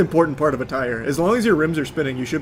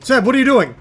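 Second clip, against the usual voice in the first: exasperated shout; 7 semitones higher, 5 dB louder than usual. Real, not acted. Frustrated at teammate in fight.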